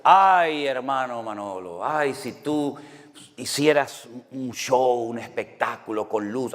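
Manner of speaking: mock visitor coaxing the pastor, drawn out; pleading admirer. Church visitor urges the pastor to put on a light show, coaxing. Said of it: "alguien vino a mi casa y me dijo".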